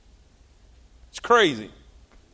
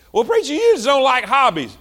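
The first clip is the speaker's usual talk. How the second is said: high, louder mock churchgoer; mock objection; 5 semitones higher, 3 dB louder than usual. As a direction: play the defensive congregant. Mimics a congregant's objection.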